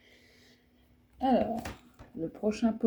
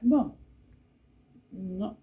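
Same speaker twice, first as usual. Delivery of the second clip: ordinary talk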